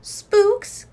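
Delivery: high gasped question. Acted. Scouts gasping in fright at Papa's spook talk. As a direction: gasp the word in alarm. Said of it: "gasped the Scouts".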